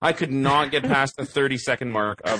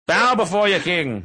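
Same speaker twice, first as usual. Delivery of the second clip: megalomaniac rant; 5 semitones higher than usual. Pretend. Quoting the king's line.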